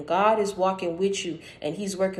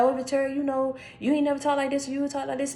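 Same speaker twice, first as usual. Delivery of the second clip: mocking imitation; 6 semitones higher than usual. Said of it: "you be like".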